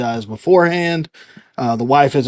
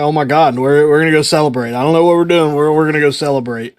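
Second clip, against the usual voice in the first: mildly excited retold outburst; 2 semitones higher, 4 dB louder, faster than usual. Husband to pregnant wife home for dinner, excited. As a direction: replay the giddy urge to celebrate. Acting out his joy when she came home.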